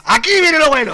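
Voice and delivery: loud, laughing eagerness; laughing anticipation. Real, not acted. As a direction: relish what's coming. Anticipa la parte buena riendo. (anticipación riendo fuerte)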